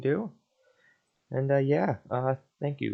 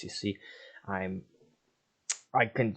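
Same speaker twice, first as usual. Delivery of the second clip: usual speaking voice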